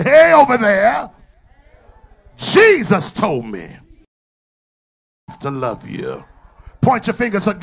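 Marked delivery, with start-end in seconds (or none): 0.0-6.2 loud, high call that drops at the end; calling across the room. Shown as a demonstration. Preacher models what to call out to someone across the room, loud. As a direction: hail someone across the church. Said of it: "Find somebody else and say".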